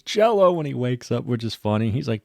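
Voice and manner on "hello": high, loud silly jello; mock groggy hello. John waking from jumper cables, goofy dazed greeting. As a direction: pop the word jello up like a dazed joke. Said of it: "And he says".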